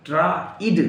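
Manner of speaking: ट्राइड said traid. Shown as a demonstration. Teacher showing ट्राइड for tried. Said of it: "आई को ई पढ़ते हैं".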